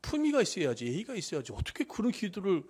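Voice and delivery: mild mock reproach; imitated scolding. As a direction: act out a disapproving telling-off of a believer. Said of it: "하나님이 그렇게 지적을 안 하십니다".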